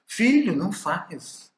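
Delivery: put-on high, sing-song scolding of a small child; parent scolding. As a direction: play a parent gently chiding a little kid.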